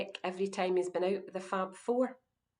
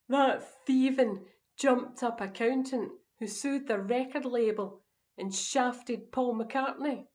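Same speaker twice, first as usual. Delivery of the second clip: raised, drawn-out outrage on the insults; indignant rant; 4 semitones higher, 4 dB louder than usual. Acted. Husband ranting about a band's accountant, indignant. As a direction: spit out the accusation, stretching the first and last words.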